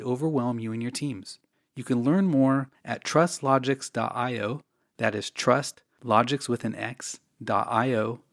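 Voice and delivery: polished podcast sponsor read; measured promotional read with clear phrasing. Real, not acted. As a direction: read it as scripted ad copy, evenly paced. Reads a sponsor ad.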